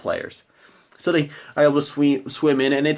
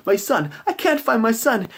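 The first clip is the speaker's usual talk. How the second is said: high, louder, distraught mother; a mother who lost her child, pitched way up; 12 semitones higher, 3 dB louder than usual. Acted. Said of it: "She's like".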